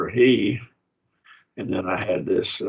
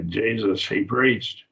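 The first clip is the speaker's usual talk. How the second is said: JESUS, then "he preached" with PREACHED lifted; emphatic doubled subject; slower than usual. Shown as a demonstration. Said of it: "That's emphatic".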